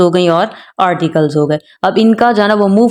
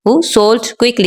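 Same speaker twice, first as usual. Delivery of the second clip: "who sold quickly" as one falling group; pause after quickly; 3 semitones higher, much slower than usual. Shown as a demonstration. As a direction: close the phrase on quickly and pause. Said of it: "यहाँ तक जो है ना हम pause देते हैं". (quickly तक एक साथ, फिर विराम)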